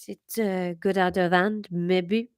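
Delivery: put-on a retry of the line in a gentle French accent; careful, hesitant French accent; the speaker retrying his careful line in French accent. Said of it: "for the French accent".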